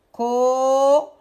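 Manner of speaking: syllable-by-syllable "Cochon"; split into syllables. Shown as a demonstration. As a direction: sustain both syllables of "Cochon". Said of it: "Je vais juste dire les mots".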